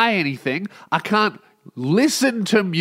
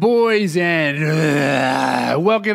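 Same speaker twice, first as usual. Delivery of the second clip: mock grand announcer voice, drawn out; a lightly hammed ringmaster opening; silly announcer noise; much slower than usual. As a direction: ham up a showman's welcome. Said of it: "I don't know why I did, made that noise".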